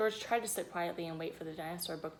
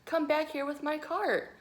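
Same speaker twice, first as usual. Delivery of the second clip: loud high call after him; 8 semitones higher, 5 dB louder than usual. A narrator's reading. Volunteer shouting after George rolling away. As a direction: chase him down with your voice. Volunteer chasing runaway cart.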